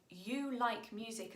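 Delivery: "You like music" spaced out as a statement. Shown as a demonstration. Teacher showing Chinese word order, slow statement on "You like music". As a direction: say "You like music" slowly, without asking. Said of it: "as a statement".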